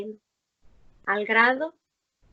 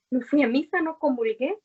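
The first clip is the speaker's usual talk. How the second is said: amused, raised protest; laughing protest; 4 semitones higher, 5 dB louder than usual. Retold or imitated.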